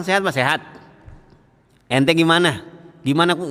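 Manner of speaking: mock high-volume talker. Shown as a demonstration. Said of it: "Kalau ngomong suaranya tinggi baik".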